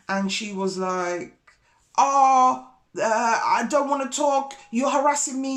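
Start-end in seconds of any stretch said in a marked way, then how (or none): 2.0-5.6 imitated protest. Neighbour acted in a quarrel.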